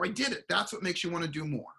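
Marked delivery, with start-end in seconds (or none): 0.0-0.4 triumphant cheer. Retold or imitated. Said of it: "dance and shake like crazy and go".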